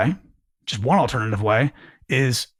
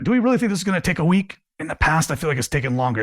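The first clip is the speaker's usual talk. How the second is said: certain; 2 semitones higher, faster than usual. Shown as a demonstration. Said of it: "It sounds like you're very certain of yourself".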